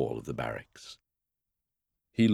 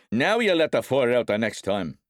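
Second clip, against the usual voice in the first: loud, raised, raging; enraged father punishing his son; vicious threat; 8 semitones higher, 6 dB louder than usual. A narrator's reading. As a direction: roar it as you strike. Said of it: "striking at him viciously".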